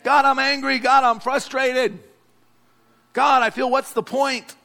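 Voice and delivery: pent-up anger aimed at heaven; frustrated venting. Acted. Frustrated believer venting to God.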